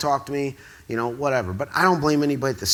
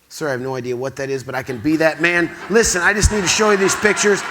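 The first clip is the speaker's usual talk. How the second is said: insistent pleading; 3 semitones higher, 8 dB louder than usual. Retold or imitated. Pleading with the boss, getting louder.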